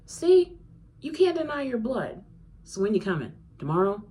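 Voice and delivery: high, loud eager teasing; gleeful friend urging her to come tomorrow; excited friend. Acted. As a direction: pounce on it with glee. Excited friend teasing about moving.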